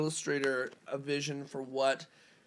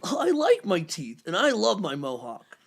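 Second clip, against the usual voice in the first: cheerful Chester; 4 dB louder than usual. Acted. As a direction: say it proudly, unbothered. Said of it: "I'll read responses as voices".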